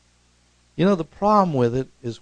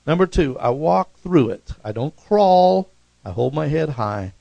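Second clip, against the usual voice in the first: rising to a loud preacher's cry, slowing on crawl; preaching shout; 4 semitones higher, 7 dB louder than usual. Real, not acted. Preacher to his flock, louder and louder. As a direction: thunder it out to the congregation.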